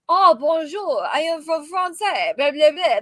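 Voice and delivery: mock French diner greeting; French accent. Imagined diner walks into French restaurant, mock French accent. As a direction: put on a silly French accent. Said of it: "walking into a French restaurant like".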